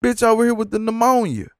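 high disbelieving rant; can't believe what you're seeing; incredulous. Retold or imitated. At the coughing cashier, high incredulous complaint. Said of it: "so I'm like".

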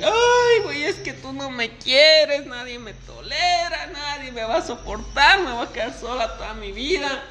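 hammed-up weepy lament, a touch of laughter; mock crying woman. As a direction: stretch every line into a self-pitying wail. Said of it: "Y que vuelve a chillar".

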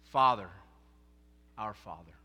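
hushed reverent prayer; prayerful. Shown as a demonstration. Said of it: "When you pray, say".

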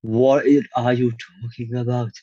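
normal talking voice

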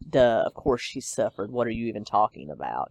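lightly sarcastic retort, low and quick at the end. Retold or imitated. Imagining herself at twenty answering a roommate, sarcastic. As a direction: toss it off as an obvious, sarcastic comeback. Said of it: "equally sarcastic".

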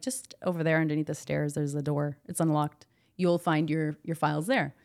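low, restrained directions; calm. Retold or imitated. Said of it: "And I'm very calm".

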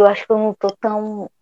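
sleepy, fading mumble; drowsy, barely awake; nodding off. Real, not acted. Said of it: "eu tô quase dormindo". (quase dormindo, com sono)

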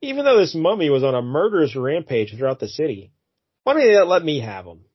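lightly voiced wheedling doctor; smarmy doctor. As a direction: coax the cops like a sly scientist. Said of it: "he says".

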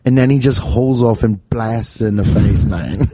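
loosely held mock-British narration; British accent. Cohost tells of the bar punch, British accent. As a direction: keep the put-on British going. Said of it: "what is drunk in, in British?".

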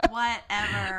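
"Whatever." laughed out with a rising end; laughing whatever. Real, not acted. Repeats dismissal, laughing.

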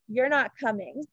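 a lightly put-on British accent, ending on a rise; a hint of a British accent, playful; bad British accent. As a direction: imitate a sassy little British girl, only faintly. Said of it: "that's a horrible British accent".

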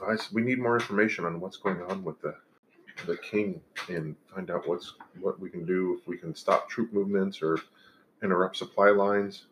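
lightly voiced halfling, a bit quick; small cosy halfling talking plans; cheerful small homely voice. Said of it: "You got the best halfling voice".

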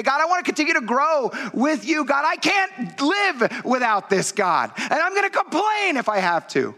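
passionate prayer. Acted. Pastor praying aloud before congregation, passionate prayer. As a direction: beg God with everything. Direct prayer at full force.

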